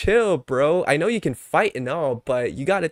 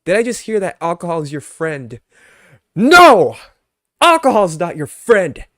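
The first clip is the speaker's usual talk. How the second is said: shouted scolding, much louder; mock crash-out; 3 semitones higher, 11 dB louder than usual. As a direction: yell at the chat for saying it. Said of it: "this is me crashing out on you".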